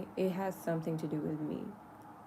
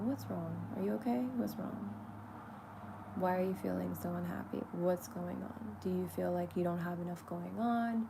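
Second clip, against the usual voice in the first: lovingly to herself. Retold or imitated. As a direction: ask yourself what's wrong like a caring nurse. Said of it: "like, lovingly".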